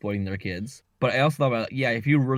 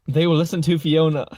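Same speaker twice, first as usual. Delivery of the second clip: mock Fiona proclamation; 3 semitones higher, 7 dB louder than usual. Imitating Fiona's third-person talk.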